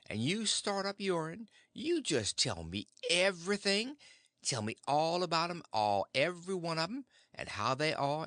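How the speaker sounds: lightly voiced country aunt, eager for news; eager Aunt Sally.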